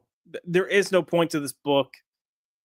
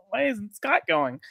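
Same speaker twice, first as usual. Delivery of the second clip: mock whiny question; 5 semitones higher than usual. Mocking disappointed X-Men.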